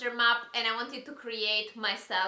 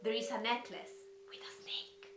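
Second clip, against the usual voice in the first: mysterious riddle reading; 2 semitones lower than usual. Acted. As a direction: read the riddles like a spooky secret. Reads rhyming riddles dramatically.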